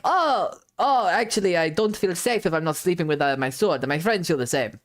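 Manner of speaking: low, put-on voice, pleading lightly; a rogue innocently explaining away the weapons. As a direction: rogue to the lady, lowering into a mock-innocent voice. Rogue fakes excuse for weapons.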